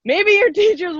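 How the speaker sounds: high, squeaky voice; squeaky, cartoonish high register. Shown as a demonstration. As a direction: pitch it way up into a squeak. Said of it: "in a squeaky voice like this".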